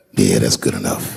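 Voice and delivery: lazy shrug. Retold or imitated. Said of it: "I'll be on stage like".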